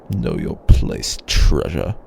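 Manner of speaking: low, slow menace; stern low rebuke; cold warning. Acted. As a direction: put the pet back in its place. Dragon rebukes the human.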